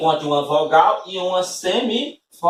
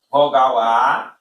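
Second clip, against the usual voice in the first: slow syllable pointing; 3 semitones lower, 3 dB louder, slower than usual. Shown as a demonstration. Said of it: "Esse I não é semivogal aqui".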